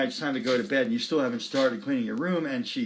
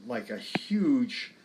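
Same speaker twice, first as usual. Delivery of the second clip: whisper; much slower than usual. Shown as a demonstration. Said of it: "I would like to think of that measure".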